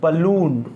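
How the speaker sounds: "बलून" with a short schwa first and long oo; pronunciation model. Shown as a demonstration. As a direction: model "बलून" as a clear isolated word. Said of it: "इसका pronunciation होता है".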